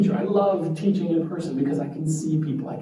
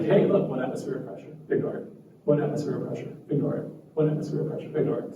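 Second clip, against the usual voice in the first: mock brain voice; 6 dB quieter, much faster than usual. Brain voiced repeating filter.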